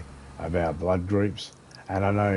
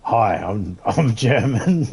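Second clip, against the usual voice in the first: bad German accent, cracking up laughing; slow, raised German accent that falls into giggles; German accent attempt; 3 semitones higher, 6 dB louder, much slower than usual. Shown as a demonstration. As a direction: try German and lose it laughing. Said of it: "I can do really good German".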